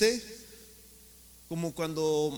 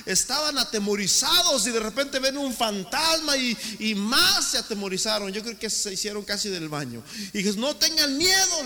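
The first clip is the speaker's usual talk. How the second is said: rising, loud preacher's build; fiery sermon delivery; preaching; 3 semitones higher, 6 dB louder than usual. Acted. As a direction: preach it with mounting force. Preaching at force.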